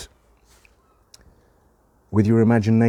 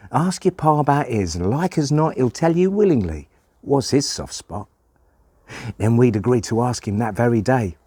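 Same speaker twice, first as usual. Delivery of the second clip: lively folksy poem reading; child's storytelling recitation; 5 semitones higher than usual. Acted. Child telling about asking Pa, lively dialect recitation. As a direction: tell it as a youngster recounting family life.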